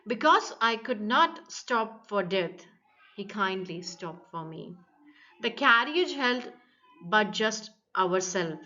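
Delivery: slow reading, a held pause after "me" before "The carriage held"; halting poem read with pauses at line ends; pausing at line breaks. Shown as a demonstration. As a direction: read slowly and let each line break hang. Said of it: "Line breaks can be used to create surprise".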